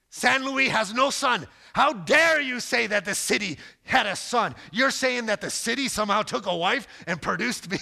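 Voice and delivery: high, loud, hammed-up indignation; mock outrage. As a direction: pretend to be offended, playfully. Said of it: "then I get real angry".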